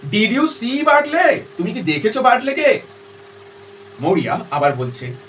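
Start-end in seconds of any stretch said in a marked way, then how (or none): 0.1-2.8 high, insistent questioning; impatient as before. Acted. Daughter demanding whether mother saw Bartley, impatient. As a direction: press the question with sharp impatience. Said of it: "যেমন মেজাজে কথা বলছো সেই মেজাজেই বলছে".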